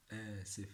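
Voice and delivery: آسف with the opening "aa" held before "sif"; drawn-out teaching demo. Shown as a demonstration. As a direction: lengthen the first syllable of آسف for repetition. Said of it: "Repeat it more and more".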